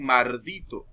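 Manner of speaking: "mardito" slowly, with an R in place of the L; slow "mardito" with an R sound; montuvio R for L. Shown as a demonstration. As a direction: say "mardito", swapping the L for R. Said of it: "en vez de decir maldito".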